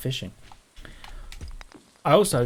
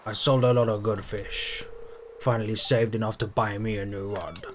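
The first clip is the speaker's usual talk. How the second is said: put-on a light salty old sea-dog voice; hint of a gruff pirate, lightly voiced; pirate fisherman voice. Gamer voicing the fisherman's dialogue, a lightly voiced pirate. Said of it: "I didn't do his voice the first time. I'm gonna do it".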